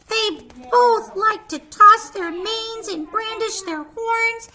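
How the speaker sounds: lively picture-book narration; storyteller voice for little kids; reading to children. A narrator's reading. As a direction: read it like bedtime story time.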